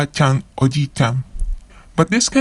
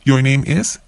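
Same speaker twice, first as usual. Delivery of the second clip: Your name is said with the pitch rising on is; questioning rise on is; rising intonation. Shown as a demonstration. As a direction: end on an upward question lift. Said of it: "with a rising intonation".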